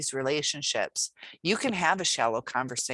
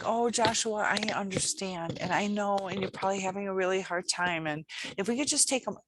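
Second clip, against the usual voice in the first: higher, softer, sweet pleading tone; overly soft coddling; 3 semitones higher, 3 dB quieter than usual. Shown as a demonstration. Teacher coddling a struggling student, too soft and sweet. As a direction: coo sympathetically like you're soothing a small child. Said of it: "but if you're like".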